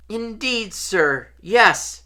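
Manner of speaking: high little elf voice; Dobby. A narrator's reading. House elf confessing to Harry, high elfin voice. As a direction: answer as an eager servant elf.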